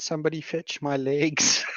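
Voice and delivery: airy, faint, ghostly half-whisper. Unconscious in the game, the character calls to the party: half-whisper on the wind. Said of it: "my unconscious voice whispers on the wind".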